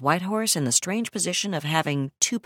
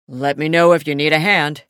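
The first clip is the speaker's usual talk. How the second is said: amused; 7 dB louder than usual. Acted. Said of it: "amusement tinging his voice".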